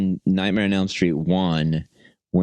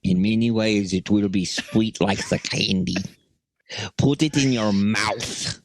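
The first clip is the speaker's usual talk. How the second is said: Russian landlady. Retold or imitated. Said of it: "trying to do my, uh, my ex-landlady".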